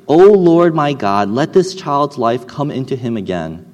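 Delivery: loud, slow plea to the Lord; crying out to God. Acted. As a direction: call out to heaven in anguish. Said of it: "cried to the Lord".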